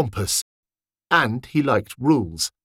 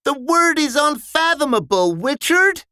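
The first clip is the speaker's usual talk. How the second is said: much higher, exasperated; eye-rolling correction. Acted. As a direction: correct him wearily. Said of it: "Ralph rolled his eyes".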